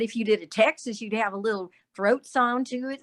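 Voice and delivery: light Texas accent with some throat in it. Shown as a demonstration. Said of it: "It says a Texas accent".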